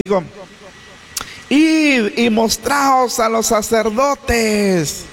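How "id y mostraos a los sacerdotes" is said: slow, measured call of command; a lightly voiced command from afar. Jesus calling his order to the lepers, slow. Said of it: "y les gritaban".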